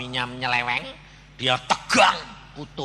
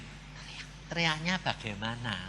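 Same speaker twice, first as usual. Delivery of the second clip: baffled mute woman; 4 semitones lower, 9 dB quieter than usual. Retold or imitated. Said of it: "Dia bilang gini".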